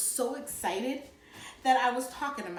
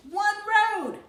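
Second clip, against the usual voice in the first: high, loud, wide-eyed wonder; amazed exclamation; 11 semitones higher, 8 dB louder than usual. A narrator's reading. Kid marvels that one road reaches Florida, loud and amazed. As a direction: shout it like a marvel.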